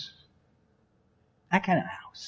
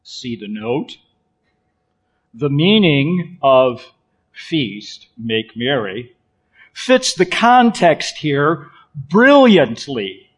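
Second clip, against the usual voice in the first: lightly voiced scholar reading a note; measured, deliberate academic delivery, pausing between phrases; hint of a learned lecturer; scholarly voice; 4 semitones lower, slower than usual. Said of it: "Scholarly voice here".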